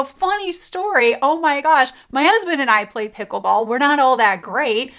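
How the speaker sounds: excited. Retold or imitated. Answering a prospect about pickleball, excited. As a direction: bubble over with a shared hobby.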